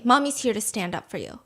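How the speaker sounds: soft, hushed mommy comfort in English; comforting mother. Retold or imitated. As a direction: murmur it softly to a crying girl. English version before Chinese.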